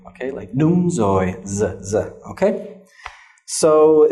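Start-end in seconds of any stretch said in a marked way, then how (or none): 0.5-2.0 rồi with a buzzing z as in Hanoi; Hanoi z sound. Shown as a demonstration. Teacher showing Hanoi pronunciation of rồi. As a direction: buzz the z in đúng rồi. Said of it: "in the Hanoi accent".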